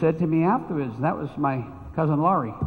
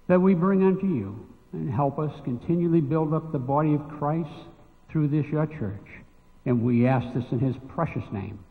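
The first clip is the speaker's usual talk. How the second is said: prayer. Acted. Prays over the offering.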